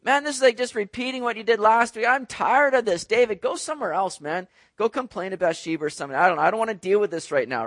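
a lightly voiced, exasperated God brushing off a complainer; imagined annoyed God. Pastor voicing God fed up with David's complaining, mildly exasperated. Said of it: "God's not a God sitting back going".

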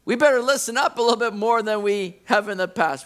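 jolted awake and suddenly eager; startled congregation. Pretend. Congregation startled by a heavenly voice, high loud excited. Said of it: "you'd be like".

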